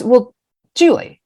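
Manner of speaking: high excited imitation of Brenda; voicing Brenda. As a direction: pitch up high and loud as the friend. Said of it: "She goes".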